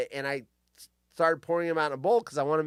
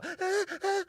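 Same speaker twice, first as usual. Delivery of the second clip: quick high intake of breath; sharp gasp; 5 dB quieter than usual. Shown as a demonstration. Showing what an orgasm breath sounds like, sharp gasp.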